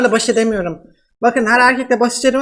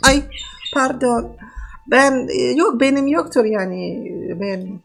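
man doing a woman's voice; 3 dB quieter than usual. Pretend. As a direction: fake Russian woman, broken Turkish. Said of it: "nasıl kadın sesi yapıyorum".

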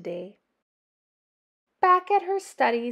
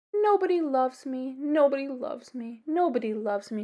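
sad crying. Acted. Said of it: "she cried".

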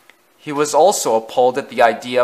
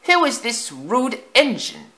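much higher, far-off fussy voice; prim old coach; 12 semitones higher than usual. A narrator's reading. Lead coach sniffing at Afton, prim. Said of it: "asked the lead coach".

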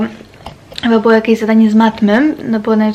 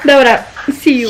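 hiccuping while talking; with hiccups; 2 semitones higher than usual. Real, not acted. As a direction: talk through the hiccups. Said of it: "Mam czkawkę trzeci raz dzisiaj".

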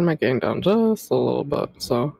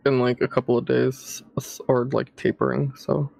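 lower, dazed rambling; stoner; 5 semitones lower than usual. Real, not acted. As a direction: talk like you're high. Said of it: "I'm high as fuck right now".

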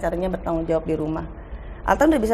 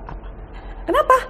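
startled what; faster than usual. Retold or imitated. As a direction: yelp it in mock surprise. Startled reply to kids.

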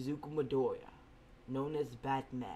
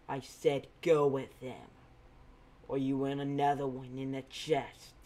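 louder, hard threat to the wounded hero; threatening order; 7 dB louder than usual. Acted. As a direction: make it a warning he can't ignore. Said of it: "the right way to threaten".

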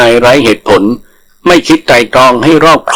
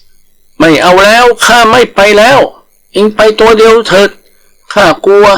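high, slow whining refusal; a terrified tiger begging off; scared refusal; 8 semitones higher than usual. Acted. Tiger refusing to go with the langur, high and whiny.

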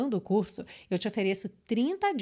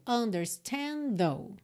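slow linking demo; much slower than usual. Shown as a demonstration. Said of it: "A gente já junta o final de understand com though".

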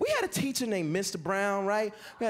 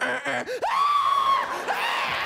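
put-on high shrieking kid yells; mock kid screams; 5 dB louder than usual. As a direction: shriek like scared third graders. Kids panic at fire drill.

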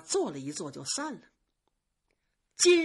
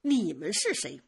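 sharp, sarcastic tirade, higher and louder; mock her rival's words with cold scorn; envious maid lashing out with sarcasm; jealous sneer; 5 semitones higher, 5 dB louder than usual. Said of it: "冷笑了几声说".

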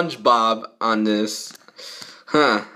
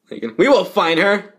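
ordinary delivery

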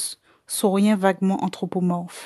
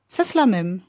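parlé trop vite. Acted. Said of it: "J'avais parlé trop vite".

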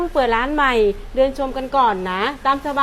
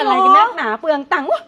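annoyed snap; 3 semitones higher, 5 dB louder than usual. Acted. Mother scolding child.

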